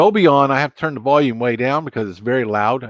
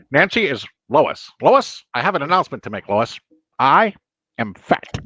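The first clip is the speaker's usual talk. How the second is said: lightly voiced cartoon-character impression; playful cartoon impression with dramatic pauses; Peter Griffin. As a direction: make a mock announcement as a cartoon character. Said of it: "I'm Peter Griffin".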